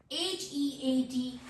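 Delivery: slow letter-by-letter spelling. Shown as a demonstration. Teacher spelling a word for learners, slow spelling. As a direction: spell it out, a small gap after each letter. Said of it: "letter spell करती हूँ".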